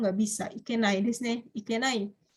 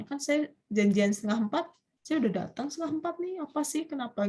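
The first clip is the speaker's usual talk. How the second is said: higher, fast, peeved friend asking why; a complaining friend, higher and quick; irritated complaint; 4 semitones higher than usual. Acted. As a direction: huff at a friend who got upset. Acted annoyed friend complaining.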